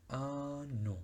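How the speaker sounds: ano said in French with an oral a; French word. Shown as a demonstration. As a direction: say ano in French with no nasal vowel.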